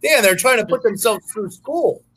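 mock sincerity. Mock defending the strippers.

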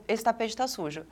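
retold detached calm, understated; cold composure. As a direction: say it like a trivial household observation. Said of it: "parecia que eu tava falando, tipo".

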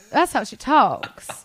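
very slow, genteel Southern accent; stately, stretched-out Southern drawl; regal Southern drawl. Shown as a demonstration. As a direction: draw it out like a regal Southern grandmother. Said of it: "it's slow and r-, regal".

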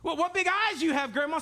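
innocent Little Red Riding Hood. Acted. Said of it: "she's just innocent".

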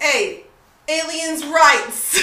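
lightly voiced slogan, drawn out at the end; a hint of a celebrity activist, slow finish. Co-host imagines rapper championing aliens, mock rallying cry. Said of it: "see a rapper being like".

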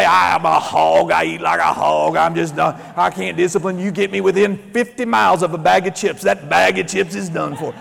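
a put-on voice playing a self-pitying glutton, tailing into a laugh; mock glutton voice. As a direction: ham up the guy who can't resist chips. Mocking self-talk of a glutton.

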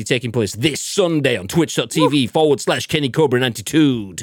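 lightly put-on caster plug, echoing away at the end; American esports caster. Host plugging Sunday's tournament, light esports caster impression. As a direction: read it like an esports announcer, fading out the last word. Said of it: "American esports caster with an English accent".

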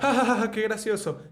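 high fake chuckle, amused viewer; hammed-up viewer laughing at a clip; mocking laugh. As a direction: laugh along like a tickled fan watching. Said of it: "él se pone así que".

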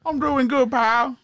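mock Texan pal; Texan accent. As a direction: answer like a friendly Texan. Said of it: "Okay, two Texans".

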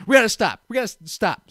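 retold urgent demand. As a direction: imitate an abrupt plea to halt. Acts her sudden demand to stop.

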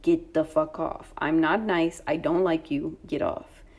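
slow, emphatic retold dismissal; really rude. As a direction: spell out the brush-off slowly. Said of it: "I'm being really rude".

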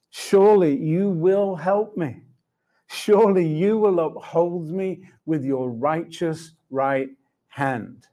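slow, deliberate affirmation with long pauses; prayerful declaration. Retold or imitated. Believer declaring the verse back to the Lord, slow and resolute. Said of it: "say the declaration back to me".

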